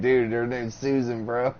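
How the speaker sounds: lightly voiced slow stoner; a hint of a lazy stoner, slowed down. Mocking Megan as a stoner about her vein, slow and laid-back. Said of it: "She's like, stoner".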